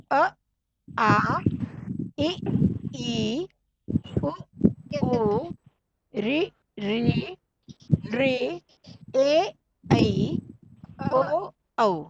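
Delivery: slow, careful model vowels, each one held clear; vowel demo to imitate. Shown as a demonstration. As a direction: say each vowel distinctly for students to repeat. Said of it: "मेरा उच्चारण भी आप सुनेंगे और उसको ही अनुसरण करना है".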